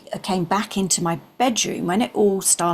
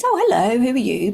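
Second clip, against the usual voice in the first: surprised hello; 5 semitones higher, 3 dB louder, faster than usual. Retold or imitated. Greeting the angel, startled.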